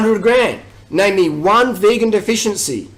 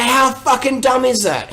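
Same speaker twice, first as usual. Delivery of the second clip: ordinary talk, nothing marked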